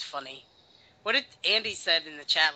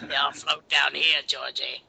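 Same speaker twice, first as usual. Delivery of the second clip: creepy quote; 5 dB louder than usual. Acted. Echoes the creepy quote, louder.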